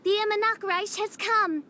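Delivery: lightly theatrical prophetess princess; grand proclamation. Acted. Princess announces her prophesied world to her people, grand proclamation. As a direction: declaim it like visiting royalty.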